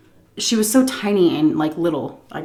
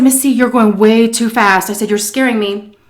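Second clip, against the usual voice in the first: frightened raised plea; 3 semitones higher, 4 dB louder than usual. Retold or imitated. Scared plea in fast car.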